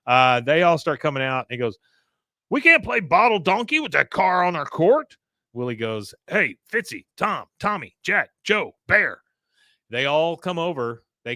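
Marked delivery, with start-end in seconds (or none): 2.5-5.2 higher, louder mock protest; acted complaint. Willie objects to car on court. 6.3-9.2 higher-pitched roll call to buddies; calling out names. Acted. Willie calls his buddies over.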